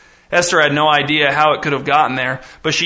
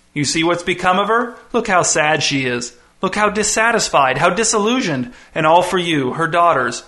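gloating visitor; 3 semitones higher than usual. Acted. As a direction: savour every word like a showman. The visitor gloats over the mother.

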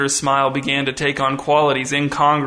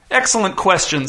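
giddy; 4 semitones higher than usual. Acted. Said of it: "nearly giddy".

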